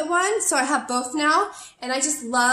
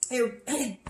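voice cracking; 4 dB quieter than usual. Real, not acted. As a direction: voice cutting out. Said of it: "Lost my voice there".

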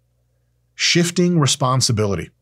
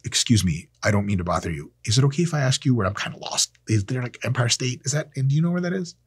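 polite request. Shown as a demonstration. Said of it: "What you might wanna do instead is".

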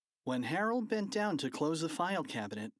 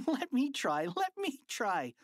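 eager; 12 semitones higher than usual. Acted. Eager boy wanting a turn.

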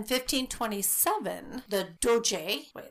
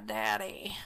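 whispered call. Acted. Spooky ghost-hunt call to spirit.

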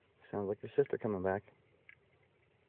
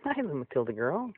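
high and louder, soothing a pet; high loud pet talk; 7 semitones higher, 6 dB louder than usual. Real, not acted. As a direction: promise the animal you'll be back, high voice. Talking to her animal.

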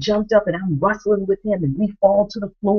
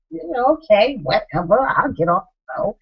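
put-on teen attitude; 5 semitones higher than usual. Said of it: "So this child had attitude".

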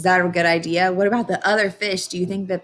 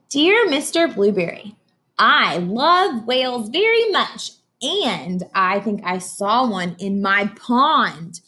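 Emily's letter voice; 2 semitones higher, slower than usual. Acted. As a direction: read it like an eager little girl. Reads Emily's letter aloud.

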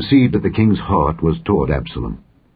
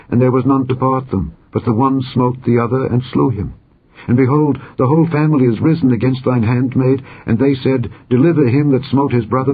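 pleading widow; 5 semitones higher than usual. Acted. Widow begging the king to spare her son, pleading. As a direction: plead with the king as a desperate mother.

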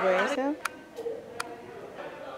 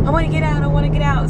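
put-on whiny child voice; 7 semitones higher, 9 dB louder, faster than usual. Mom imitating scared son in water.

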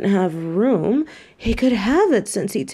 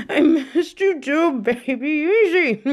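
pet talk; 7 semitones higher than usual. Real, not acted. Cooing to her pet rabbit on reunion.

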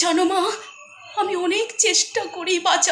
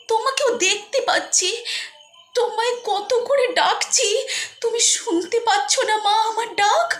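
tearful pleading; 5 semitones higher than usual. Acted. Ghost calling unheard mother.

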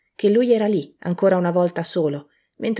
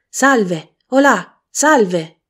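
grida più forte e più alto, chiamando da lontano; richiamo gridato; 4 semitones higher, 7 dB louder, much slower than usual. A narrator's reading. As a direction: chiama a gran voce. Venerdì che corre chiamando. (richiamo a squarciagola)

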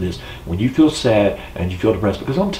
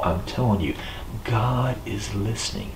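soft assurance; 7 dB quieter than usual. Real, not acted. Preacher softens to assure.

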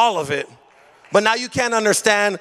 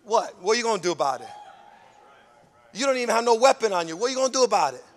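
taunting devil; 6 dB quieter, much faster than usual. Retold or imitated. Preacher voicing the devil mocking a believer, quiet taunt. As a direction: sneer it back quietly. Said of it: "This is what devil's gonna do".

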